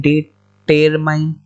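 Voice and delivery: determine stretched very slowly, the way not to say it; mock-wrong slow determine; wrong drawn-out determine. Shown as a demonstration. Teacher showing students the wrong way, very slowly. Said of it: "तो यहाँ पे ऐसे तो बोलेंगे नहीं".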